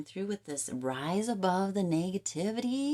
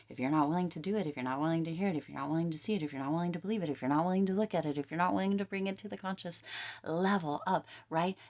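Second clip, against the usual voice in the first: sermon; 3 dB louder, much faster than usual. Real, not acted. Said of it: "this turned into a sermon of sorts".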